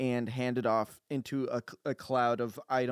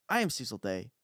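lower-pitched solemn declaration; deep self-introduction; 3 semitones lower than usual. Acted. Cecil introducing himself, low and self-important. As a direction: announce the name low and grand. Same line repeated in lower voice.

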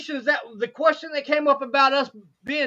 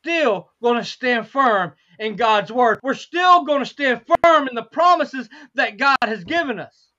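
determined preaching; 4 dB louder than usual. Real, not acted. Resumes preaching after aside.

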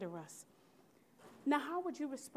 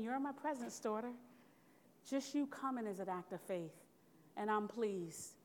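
lightly voiced gentle God; tender reply; 5 dB quieter than usual. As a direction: speak as God comforting his daughter.

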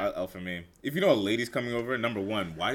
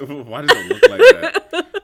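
slow, very high and loud, squealed through laughter; can't get it out for laughing; laughing disbelief; 20 dB louder, slower than usual. Real, not acted. Repeats the quote while laughing.

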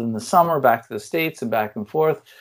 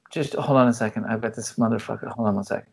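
annoyed mom on phone; 2 semitones lower, 3 dB quieter, faster than usual. Retold or imitated. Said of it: "She'd be like, she'd be on the phone".

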